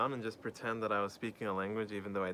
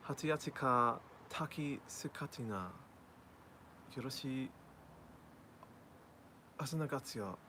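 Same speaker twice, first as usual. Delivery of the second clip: higher nonsense Japanese babble; fake foreign language; 4 semitones higher, 5 dB quieter than usual. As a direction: mimic Japanese with made-up words. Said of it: "pretending to speak Japanese".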